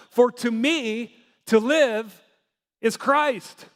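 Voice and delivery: slow, weighty reading of For to me to live is Christ; slow scripture quote. Retold or imitated. Pastor quoting Paul to the congregation, slow and weighty. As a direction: lean into each word of to live and Christ, slowly. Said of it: "he was able to say in Philippians".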